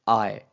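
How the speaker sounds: teacher demonstrating stress on आए; primary stress demo. Shown as a demonstration. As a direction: give आए full primary stress, loud and clear. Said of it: "मैं उसको primary stress को".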